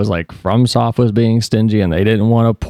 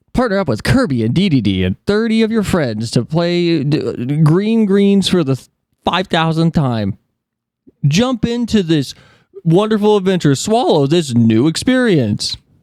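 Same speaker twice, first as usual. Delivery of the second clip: high-pitched, hyped-up trailer announcer voice; 7 semitones higher than usual. Imitating the Nintendo trailer announcer: imitating the Nintendo announcer. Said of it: "The guy that's like".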